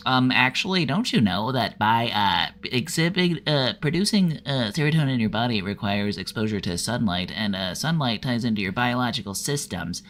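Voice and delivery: pedantic, nasal know-it-all voice; put-on nasal pedant with condescending stresses; nasally "well, actually" incel. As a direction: correct them like a smug nasal nerd, stumbling on "uh". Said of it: "How about a nasally will actually incel?".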